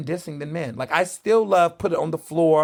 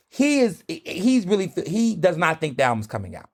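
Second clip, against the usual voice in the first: ordinary delivery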